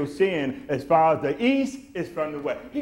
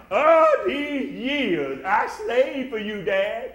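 crying out in grievance; 9 semitones higher, 5 dB louder, slower than usual. Retold or imitated. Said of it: "He just laying it out".

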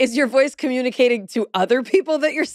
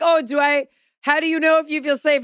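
imitating herself; 7 semitones higher than usual. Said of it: "I was just like".

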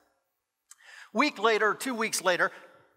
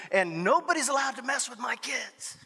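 higher, tight-voiced warning; fierce protectiveness; 4 semitones higher than usual. God as father defending his kids, fierce warning. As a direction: push the pitch up in protective defiance.

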